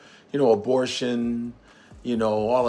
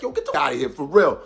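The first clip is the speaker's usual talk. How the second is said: mock New York talk; faster than usual. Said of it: "That's what she was like".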